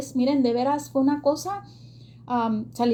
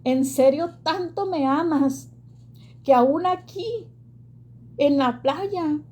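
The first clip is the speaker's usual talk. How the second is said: higher, slow, tearful plea to God; tearful prayer; 5 semitones higher, slower than usual. Retold or imitated. Woman on the beach crying out to God, tearful high plea. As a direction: let the voice rise and crack with retold tears. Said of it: "yo empecé a llorar más".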